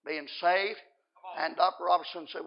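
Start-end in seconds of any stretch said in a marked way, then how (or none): 0.0-0.8 low, soft and unemotional; emotionless refusal. Retold or imitated. Man tells the doctor he is not interested, emotionless. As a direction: turn it down with no feeling at all. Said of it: "without any emotion at all".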